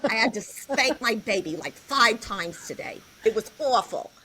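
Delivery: a hint of the gossiping missus complaining about her kids. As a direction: play the missus, a chatty chain-smoking lady. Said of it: "And I'd be like".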